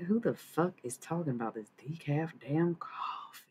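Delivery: indignant rant drifting into a Southern accent. Real, not acted. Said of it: "Southern accent out of nowhere".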